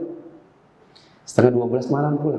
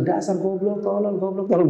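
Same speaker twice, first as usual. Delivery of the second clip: insulting parent; 5 semitones higher than usual. Acted. Parent insulting child over fire.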